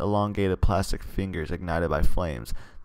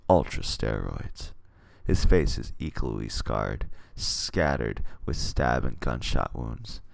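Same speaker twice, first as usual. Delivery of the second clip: lightly dramatic storytelling, sinking lower; story narration; 4 semitones lower than usual. A narrator's reading. Player reading a villain's description to viewers, low story narration. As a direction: read it as a measured, ominous description.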